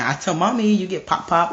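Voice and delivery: little sister threatening. Acted. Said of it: "She'll be like".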